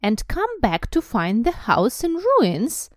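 indignant high snarl. A narrator's reading. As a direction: snarl it, loud and drawn-out. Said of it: "she snarled".

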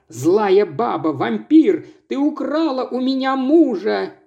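wife yelling at the other woman; shouting at rival. Acted. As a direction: hurl it at the rival. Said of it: "Ирис закричала".

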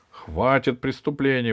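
firm indignant call; exclaiming. Acted. Дед Мороз protests the crimes, firm exclamation. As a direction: put a stop to it. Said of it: "воскликнул Дед Мороз".

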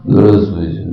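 extremely low, heavy bass greeting; General Lebed voice. Retold or imitated. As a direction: growl it like a gruff general. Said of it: "такой был генерал Лебедь". (густой бас генерала Лебедя)

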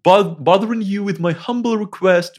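put-on high, loud, slow posh British accent; overly polite British accent, drawn out. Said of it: "с британским акцентом такой".

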